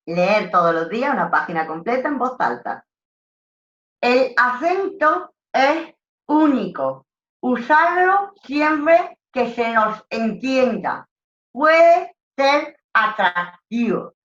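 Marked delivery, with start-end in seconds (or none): 4.0-14.1 higher, louder and slow, words pushed round a cork held between the teeth; cork in mouth. Shown as a demonstration. Teacher demonstrating to phone agents the diction drill with a cork in the mouth. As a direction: read it out with a wine cork in your mouth, slow and loud. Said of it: "el corcho en la boca".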